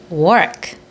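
"work" with the lips slightly rounded; careful model of "work", lips rounded on the vowel. Shown as a demonstration. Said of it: "입술이 약간 동그래지네요".

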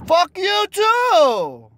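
high drawn-out angry yell. Real, not acted. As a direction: shout it out in frustration. Raging at Pokemon game.

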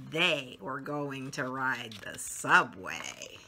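slow, gentle storybook reading; lively picture-book narration; reading to children. A narrator's reading. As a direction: read it like bedtime story time for little ones.

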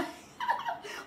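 airy high-pitched giggle; high breathy laugh. Real, not acted. Host laughing at a customer's compliment, high giggle. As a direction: let out a high airless laugh.

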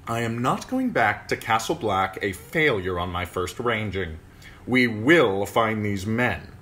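put-on proud young lord. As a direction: declare it with wounded pride. Waymar's proud vow.

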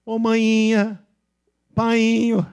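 high, loud singsong baiano; exaggerated Bahia imitation; Bahian accent. Shown as a demonstration. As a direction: call out like a Bahian, vowels held. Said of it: "Eles não falam assim, o baiano?".

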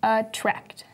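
"attract" with the emphasis on "tract"; light "at", strong "tract" in "attract"; stress on second syllable. Shown as a demonstration. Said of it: "emphasis in the second half of the word".

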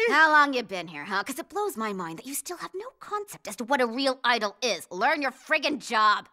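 loud, harsh telling-off; angry scolding. Acted. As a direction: tear into the clueless assistant. Idol scolds her assistant.

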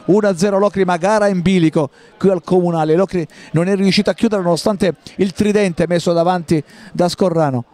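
ordinary talk, nothing marked

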